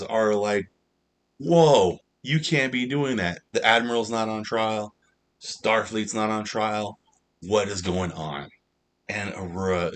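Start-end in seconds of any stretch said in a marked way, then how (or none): 1.4-8.5 mock shocked judges. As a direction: play the judges thrown off by the outburst.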